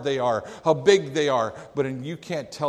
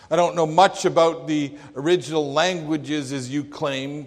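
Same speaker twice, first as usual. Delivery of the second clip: louder, plain-spoken jab; old preacher; 3 semitones higher, 6 dB louder than usual. Retold or imitated. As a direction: shrug off the learning. Old preacher mocks scholarship.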